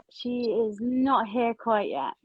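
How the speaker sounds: slow, soft whisper under the breath. Real, not acted. Host waiting for the guest to join, whispered. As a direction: hush it as if the guest might overhear.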